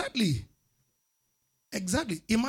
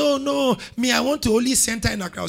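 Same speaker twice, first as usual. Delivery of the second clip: higher-pitched, quicker mock refusal; girl refusing; 5 semitones higher than usual. Preacher mimicking a girl who won't leave Accra, mock protest. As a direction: put on a girl's protest, voice lifted. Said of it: "She said".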